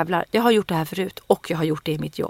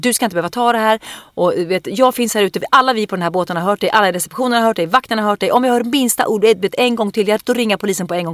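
louder, higher scolding lecture; stern harangue; 4 semitones higher, 4 dB louder than usual. Retold or imitated. Retelling how she told off the man, stern and loud. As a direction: lay down the law, a touch fast. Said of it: "en jävla lång harang".

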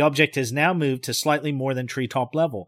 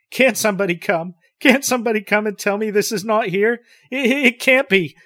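desperate plea; 7 semitones higher, 4 dB louder than usual. Acted.

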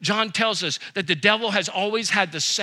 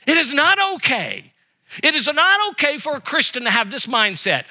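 emphatic preaching; 5 semitones higher, 4 dB louder than usual. Acted. Paul's emphatic answer.

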